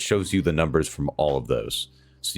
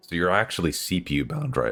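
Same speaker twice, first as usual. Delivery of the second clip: cracking, breaking voice. Walking a viewer through game settings, voice cracking. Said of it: "that voice crack".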